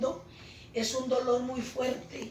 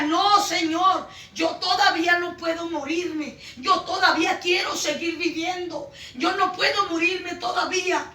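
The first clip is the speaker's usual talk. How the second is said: impassioned, louder retelling of a plea; raised voice, re-enacting a desperate plea; retold cry to God; 3 semitones higher, 4 dB louder than usual. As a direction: plead insistently, retelling your cry to the Lord. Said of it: "yo gritaba y le decía".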